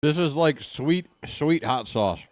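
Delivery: talking while eating; words around a bite of food; mouth full. Real, not acted. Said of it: "Sorry for eating on, on the mic".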